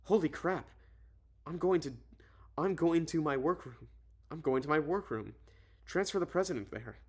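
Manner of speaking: acted alarm, hurrying into action. Heroine hearing of the bombing from Arthur, mildly alarmed.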